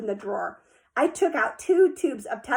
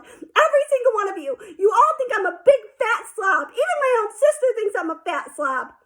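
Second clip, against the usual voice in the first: high, loud tearful wail; a girl sobbing out her hurt; bawling; 10 semitones higher, 5 dB louder than usual. A narrator's reading. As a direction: wail it through tears. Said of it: "started bawling so loud".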